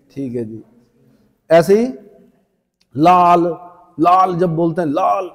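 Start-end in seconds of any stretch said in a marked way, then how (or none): 3.0-3.5 लाल hit hard and loud; loud emphatic लाल; stressed. Shown as a demonstration. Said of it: "मतलब जोर देकर बोलते हैं".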